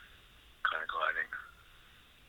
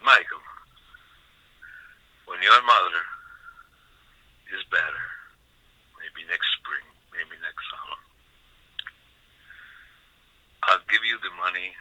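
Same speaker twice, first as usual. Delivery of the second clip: put-on Sicilian accent. An uncle promising his nephew money, in a Sicilian accent. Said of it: "I'll try to do his accent".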